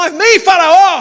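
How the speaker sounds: eager, rousing, loud and enthusiastic shout. Retelling the pastor shouting again, louder: retelling an enthusiastic shout. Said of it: "gritou com mais entusiasmo".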